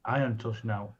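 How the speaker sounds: tinny, all treble, no bass; metallic voice filter. Real, not acted. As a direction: sounds like he's in a tin can. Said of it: "you sound like you're in the fucking tin can".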